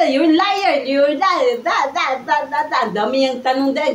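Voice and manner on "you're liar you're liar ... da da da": retold angry accusation. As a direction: mimic an angry boyfriend's accusation, trailing into nonsense syllables. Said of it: "Galit na galit yung Amerikano ko". (kunwaring galit na nanunumbat)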